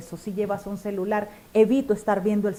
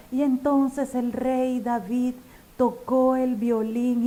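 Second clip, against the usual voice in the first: monotone demo; 2 semitones higher, slower than usual. Shown as a demonstration. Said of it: "no mantener el mismo tono".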